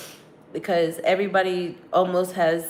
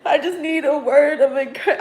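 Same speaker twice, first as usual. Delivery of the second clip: imagined plea to dad; 7 semitones higher than usual. Pretend. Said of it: "I don't have a dad that I can call and be like".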